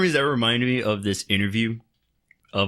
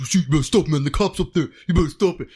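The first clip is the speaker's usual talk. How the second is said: high, louder mock warning to a friend; imitating a guy urging his friend to quit; arguing driver imitated; 7 semitones higher, 4 dB louder than usual. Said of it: "you hear one of the guys go".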